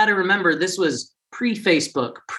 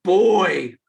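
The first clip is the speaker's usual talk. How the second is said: drawn-out mimicked teasing, word by word; imitating Koreans; 3 semitones higher, much slower than usual. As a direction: mimic Koreans comparing, each word stretched out. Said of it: "they'd point at their own and they'd be like".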